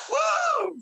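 very high, loud joyful whoop. Real, not acted. Preacher crowning the three levels of peace with a whoop. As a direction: shriek with holy joy.

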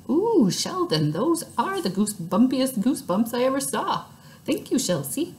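gushing Lucille. A narrator's reading. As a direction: coo it like a delighted show-off. Lucille gushing over Sheldon.

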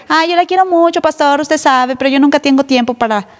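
light mock gushing tone; mock fawning member. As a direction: parody a flattering member who never asks advice. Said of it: "no me refiero a que".

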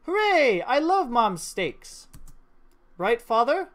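put-on a child delighted about dinner; cheerful daughter; excited little girl. Voicing the girl's joy.

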